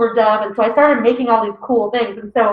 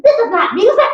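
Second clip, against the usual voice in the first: mock exasperated mom; 12 semitones higher, 4 dB louder than usual. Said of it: "she's like".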